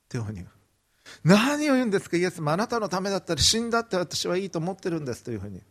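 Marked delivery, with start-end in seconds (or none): 1.2-5.2 indignant protest. Acted. Peter protesting to Jesus that he would die for him, indignant and fast. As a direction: blurt out hurt disbelief at the very idea.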